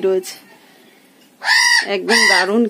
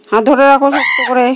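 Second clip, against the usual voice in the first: usual speaking voice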